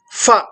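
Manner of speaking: pha said as an f sound, fa, teeth on lip; wrong fa. Shown as a demonstration. Teacher shows how some say pha, as fa. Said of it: "which our teacher used to say it is wrong".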